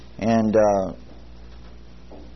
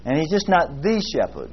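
And He's just not the shepherd, the leaned on; stress on the; 3 semitones higher than usual. Shown as a demonstration. Preacher contrasting for his class, stress on the. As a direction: build the contrast. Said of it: "But He's my shepherd".

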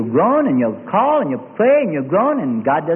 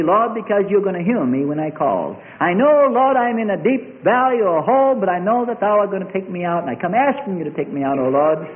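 model prayer. Shown as a demonstration. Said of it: "how much more victory you'll have with that prayer".

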